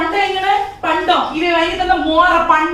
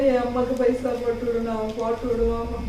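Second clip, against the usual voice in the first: tearful; 2 semitones lower, 6 dB quieter than usual. Acted. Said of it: "அழாதையா".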